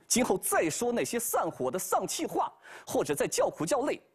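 a last warning, stretched at the end; Monkey King warning. Acted.

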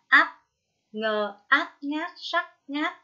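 "Át" cut off by the tongue tip between closed teeth; clear final T. Shown as a demonstration. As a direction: slowly spell out "ngát", stopping the final t with the tongue. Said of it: "đầu lưỡi đặt giữa hai hàm răng". (đánh vần chậm "ngát", khép âm t cuối)

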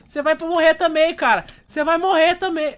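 high, loud taunting yell; angry threat. Real, not acted. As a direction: shout it at the enemy you're chasing. Threatening enemy player in game. (gritando ameaça ao inimigo no jogo)

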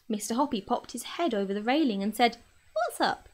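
lively read-aloud storytelling voice; gentle children's book reading; story narration. A narrator's reading. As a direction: read it like a bedtime story for kids.

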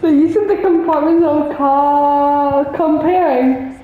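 slow teasing singsong; mocking singsong. Real, not acted. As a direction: drag it out to tease. Mocking friend's words.

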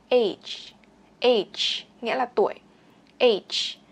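crisp model "age", ending fully voiced out; final G sounded. Shown as a demonstration. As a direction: let the j sound at the end of "age" come out. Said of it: "phát âm chữ G ra".

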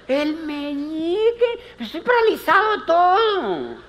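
high, strained whine of a paralysed patient; complaining patient. Retold or imitated. Patient whining at the physiotherapist, high and strained. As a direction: protest in a high pleading voice.

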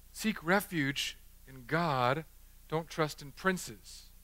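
quiet emphasis. Real, not acted. Quiet solemn repeat of verse.

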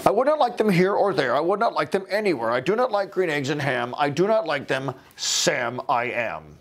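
a hint of a grouch refusing; crotchety old man. The old man turns Sam down, mildly grumpy. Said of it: "the crotchety older guy".

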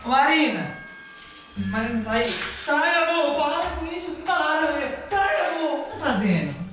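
high frightened pleading; plead, really scared. Real, not acted. Frightened by the zombie.

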